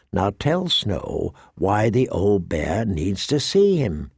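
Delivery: slow, low character voice; slow it down and drop low to make the demand; pointed demand. A narrator's reading. Tyrion orders Thorne to tell Snow the news, pointed demand.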